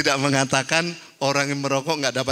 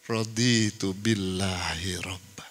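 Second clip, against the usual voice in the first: whispered; 6 semitones lower, 6 dB quieter, slower than usual. Shown as a demonstration. Preacher showing the night declaration, slow whisper. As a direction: whisper "Raditu billahi robba" slowly, with no voice.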